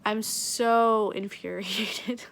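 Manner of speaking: slow, drawn-out exasperation with a laugh; venting, half laughing in disbelief; exasperated. Real, not acted. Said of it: "I'm, like, super pissed off".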